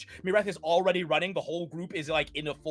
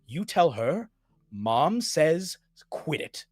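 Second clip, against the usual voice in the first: ancient Fey spirit. Acted. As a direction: speak from far beyond as an ancient spirit. Mother spirit.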